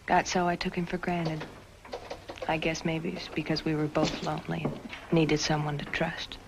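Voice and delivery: remember him quietly, almost to yourself; voice-over narration. A narrator's reading.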